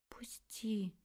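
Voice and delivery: barely audible whispered plea; faint whisper. Acted. Tanya pleading with Shuvalov to let go, faint whisper. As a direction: breathe it out, hardly a sound. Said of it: "чуть слышно шептала я".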